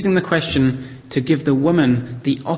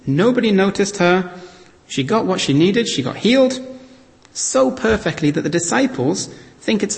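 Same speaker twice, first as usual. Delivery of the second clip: excited; 6 semitones higher than usual. Acted. Triumphant retelling of secret plan.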